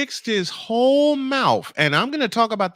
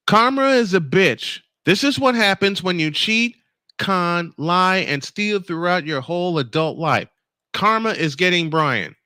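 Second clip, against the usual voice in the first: pointed reread. Shown as a demonstration. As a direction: read it again with a bite, letting the anger show. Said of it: "let me read that again".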